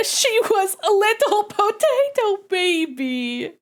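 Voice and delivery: gushing. Real, not acted. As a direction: melt over the tiny kitten. Gushing over kitten photo.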